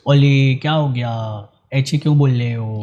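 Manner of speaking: lightly lisped, slowish mock baby talk; imitated baby talk. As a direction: imitate adults lisping at a child. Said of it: "तुतला के बात करती है". (बच्चों जैसी तोतली बोली की हल्की नकल)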